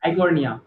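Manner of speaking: इकोर्निया opened with an "eye" sound, aai-kornia; corrected pronunciation. Shown as a demonstration. Teacher correcting a student, इकोर्निया said as "eye-kornia". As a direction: start इकोर्निया like English "eye". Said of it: "इकोर्निया बोलते हैं".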